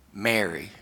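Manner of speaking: gentle calling. Retold or imitated. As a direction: say the name quietly, acting out a tender recognition. Jesus gently calls Mary by name.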